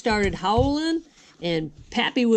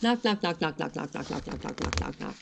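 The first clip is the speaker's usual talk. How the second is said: knocks fading to a whisper; 3 semitones lower, 8 dB quieter than usual. A narrator's reading. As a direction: let each knock grow softer until whispered. Story knocking fades away.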